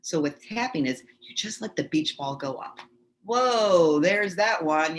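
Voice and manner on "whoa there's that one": loud, raised, drawn-out whoa; acted surprise. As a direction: exclaim as if something just popped up. Acts out feelings popping up.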